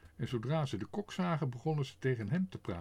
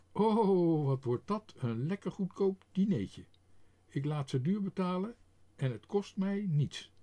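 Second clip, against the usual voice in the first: high, louder gloating delight; gleeful boss; 6 semitones higher, 4 dB louder than usual. A narrator's reading. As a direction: relish the cheap dinner.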